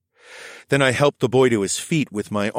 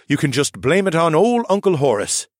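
lightly voiced kindly man; a gentle, joking uncle; 7 semitones higher, 4 dB louder than usual. Horace speaks.

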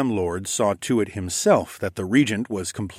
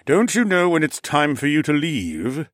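higher-pitched, impatient question; 6 semitones higher than usual. A narrator's reading. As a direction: press him impatiently to go. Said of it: "Mech sighed impatiently".

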